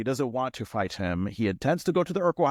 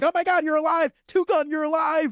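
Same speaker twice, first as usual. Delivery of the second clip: mock, very high, overjoyed, ecstatic outburst; 4 dB louder than usual. Retelling a sitcom scene where a character wakes up: imitating an ecstatic Carl. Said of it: "a very ecstatic Carl who wakes up and is like".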